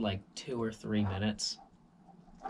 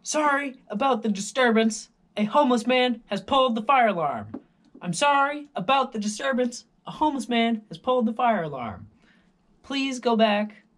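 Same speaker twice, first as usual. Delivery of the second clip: high, loud apologetic announcement; mock intercom guard; 11 semitones higher, 9 dB louder than usual. Security guard apologises to residents on intercom, high loud announcer voice. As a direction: play the security guard over the speakers, overly formal. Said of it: "the guy came back and he said".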